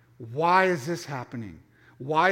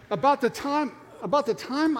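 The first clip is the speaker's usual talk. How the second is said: laughing; 8 semitones higher, 3 dB louder than usual. Real, not acted.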